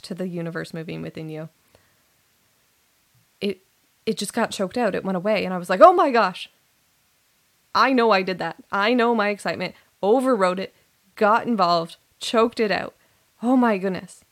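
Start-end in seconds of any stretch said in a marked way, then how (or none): 5.8-14.2 dismayed realization. Retold or imitated. Realizing she choked it out.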